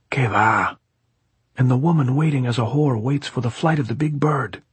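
high-pitched, pressing gypsy voice; insistent gypsy. A narrator's reading. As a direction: press the point as the gypsy plotter.

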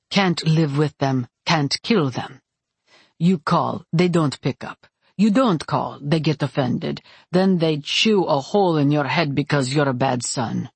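lightly voiced man grumbling about parents; a touch of weary, wry character voice; wry Roman. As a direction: deliver it like a resigned old complaint.

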